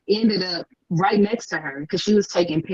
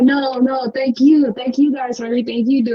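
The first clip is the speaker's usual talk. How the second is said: higher-pitched gushing gratitude, imitated; gracious thanks; 6 semitones higher than usual. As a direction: thank a fan sweetly, voice lifted. Voicing the star thanking fans.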